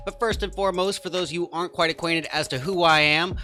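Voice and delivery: booming esports caster intro; grand entrance announcement. Acted. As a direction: hype up the crowd like a ringmaster. Caster opens tournament broadcast.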